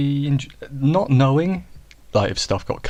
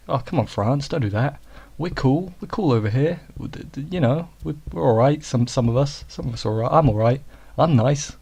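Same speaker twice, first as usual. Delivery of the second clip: mock pleading; 4 semitones higher than usual. Pleading with France in mock quote.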